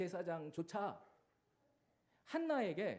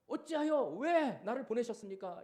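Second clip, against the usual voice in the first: slow, pleading cry to God; a touch of a wail, drawn out; mild crying out; 4 semitones higher, 5 dB louder than usual. Retold or imitated. Moses crying out to God, slow mild plea. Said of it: "울부짖는 모세에게".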